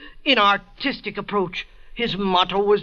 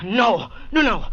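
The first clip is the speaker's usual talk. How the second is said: frantic refusal. Acted. Cornered suspect refusing arrest.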